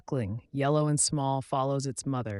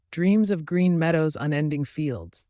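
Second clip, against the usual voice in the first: higher, louder lightly voiced sheep; dreamy sheep; 4 semitones higher, 8 dB louder than usual. Sheep dreaming of fields, gentle. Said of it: "the sheep dreamt gently".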